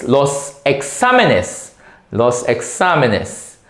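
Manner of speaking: "exámenes" slowly, stress on the second syllable; slow drill of "exámenes", accent on "xá"; accented plural. Shown as a demonstration. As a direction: model "los exámenes" slowly, leaning on the accented A. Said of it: "an accent is the exámenes".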